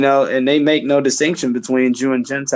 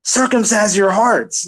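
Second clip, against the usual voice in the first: voicing God; 8 semitones higher than usual. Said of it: "you have God saying".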